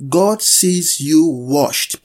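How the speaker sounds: slow, drawn-out declaration; preacher's proclamation. Real, not acted. Preacher closes meeting declaring how God sees them, proclaiming. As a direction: proclaim it slowly over the congregation. Proclaims conclusion, asks for amens.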